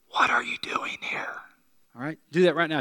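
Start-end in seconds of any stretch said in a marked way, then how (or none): 0.1-1.4 voiceless stage whisper. Shown as a demonstration. Preacher shows the congregation what to say, whispered. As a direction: whisper it to someone near you. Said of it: "and whisper".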